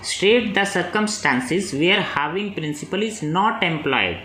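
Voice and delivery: reads the exam question very slowly, word by word; slow dictation reading. Acted. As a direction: dictate it so students can write. (प्रश्न धीरे-धीरे बोलकर लिखवाना)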